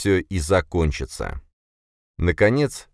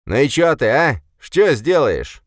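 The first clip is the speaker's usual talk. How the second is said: put-on high, loud, slow drunken jeer; drunk taunt; 9 semitones higher, 6 dB louder than usual. A narrator's reading. Drunk Boris taunting his brother, a loud slow jeer. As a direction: dare him, slurring and loud.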